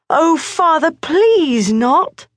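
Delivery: high pleading cry; begging boy. A narrator's reading. Morris begs his father not to send him, high pleading. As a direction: beg like a frightened boy.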